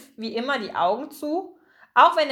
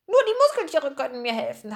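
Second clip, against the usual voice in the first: higher, quick seagull chatter; 4 semitones higher, faster than usual. Acted. Gull passes on a friend's plea, squawky and hurried. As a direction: rattle off the message in a light bird voice.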